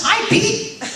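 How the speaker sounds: high parrot voice with a laugh; a talking bird chirping the name, high. Retold or imitated. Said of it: "He says".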